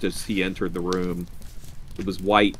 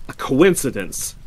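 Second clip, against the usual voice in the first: put-on slightly raised, flustered old man; stammered; 5 semitones higher, 4 dB louder than usual. A narrator's reading. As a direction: falter out a weak explanation. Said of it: "stammered the old man".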